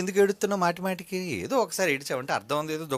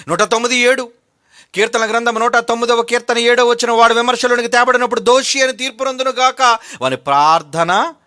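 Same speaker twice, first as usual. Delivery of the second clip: loud, high, sustained citation; forceful scripture declamation; 6 semitones higher, 9 dB louder than usual. Real, not acted. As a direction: ring out the verse, drawing out the last words. Preaching at full force.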